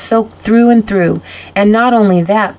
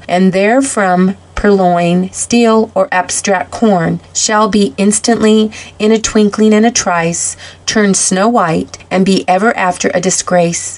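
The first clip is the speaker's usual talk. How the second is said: formal proclamation. A narrator's reading. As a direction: proclaim it item by item, with pauses. Reads out Santa's written notice.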